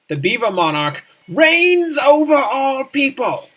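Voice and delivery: slow, loud royal decree; grand proclamation. Acted. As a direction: proclaim like a pompous king. Proclaiming as the Beaver Monarch.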